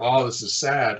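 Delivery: mildly acted pity, falling at the end; mock sad. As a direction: lightly act out finding it sad. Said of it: "can you get some motivation for this".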